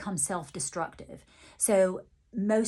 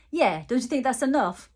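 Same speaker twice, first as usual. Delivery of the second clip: a cheeky, higher, louder quip; 5 semitones higher, 5 dB louder than usual. Retold or imitated. Medium voicing Ozzy wanting to end the chat, cheeky. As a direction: tease them that enough's been said. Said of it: "um, cheeky".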